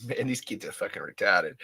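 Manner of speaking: mock Australian accent, Mad Max style. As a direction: imitate a movie line in an Australian accent. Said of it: "I can only do it in an Australian accent".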